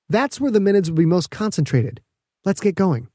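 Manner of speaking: put-on bright young scientist explaining proudly; Petra's voice. Petra urges governor onward.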